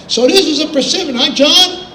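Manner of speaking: a hint of gullible wonder; naive city boy. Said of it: "I go".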